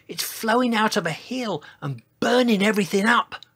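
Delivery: high-pitched dinosaur voice; Sizo. A narrator's reading. Dinosaur describing the fire to the crowd, high voice. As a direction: report it up high in character. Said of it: "whispered Sizo".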